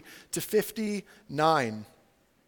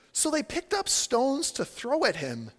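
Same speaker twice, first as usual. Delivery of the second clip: slow, deliberate reading, raised pitch; measured verse reading; 5 semitones higher than usual. Real, not acted. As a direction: read it out slowly for effect. Reads verse, then contrasts it.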